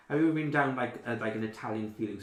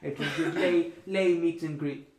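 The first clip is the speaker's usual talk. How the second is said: haughty elf receptionist; 5 semitones higher, 6 dB louder than usual. Acted. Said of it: "she goes".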